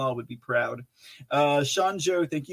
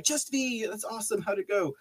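high, bright welcome for a latecomer; cheery group greeting; 7 semitones higher, 5 dB quieter than usual. Pretend. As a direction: greet her like the whole chat is cheering. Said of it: "just everyone be like".

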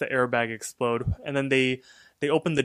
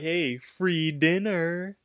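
higher, drawn-out mock cheer; imitated celebrating; 5 semitones higher, much slower than usual. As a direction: stretch it slowly into a sing-song celebration. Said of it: "then they're celebrating".

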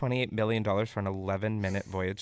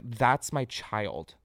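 mom crying; 3 semitones lower, 4 dB quieter, much slower than usual. Retold or imitated. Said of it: "She's like".

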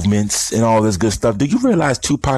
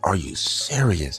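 slow disbelief; 6 dB quieter, slower than usual. Retold or imitated. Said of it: "I'm like".

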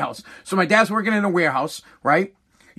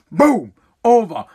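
mock curt; 5 dB louder, slower than usual. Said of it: "Was like".

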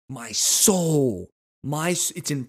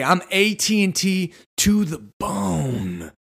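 mock devoted customer; 4 semitones higher, slower than usual.

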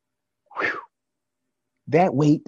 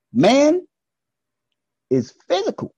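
proclaiming; 10 semitones higher, 4 dB louder, slower than usual. Real, not acted. Proclaiming man's way.

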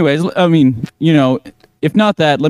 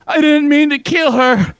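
much higher, slow, odd cartoonish voice; strange put-on voice; 14 semitones higher, slower than usual. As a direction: squeak it out slowly like a cartoon villain. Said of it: "why'd you sound like that".

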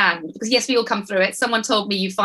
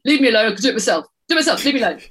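mock angry son, louder; irritated teen; 3 semitones higher, 3 dB louder, much faster than usual. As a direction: snap it back, fed up. Son snapping again, louder.

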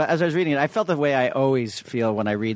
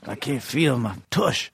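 movie line quote; slower than usual. Retold or imitated. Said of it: "Is that a line from his movies?".

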